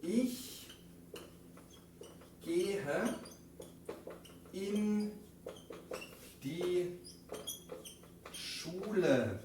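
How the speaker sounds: Ich gehe in die Schule, una palabra cada vez; modelo muy pausado. Shown as a demonstration. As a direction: deja largas pausas entre palabras. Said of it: "de ayuda decimos". (dictado lento de la frase en alemán)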